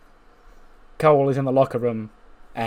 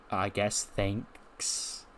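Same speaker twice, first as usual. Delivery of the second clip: soft, barely-there mumble; reluctant thanks; 4 semitones lower, 11 dB quieter, much slower than usual. Acted. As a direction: give it grudgingly, almost under your breath. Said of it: "Bailey's like".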